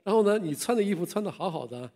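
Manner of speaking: put-on family asking the revived old man, astonished. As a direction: ask in disbelief. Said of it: "非常惊讶".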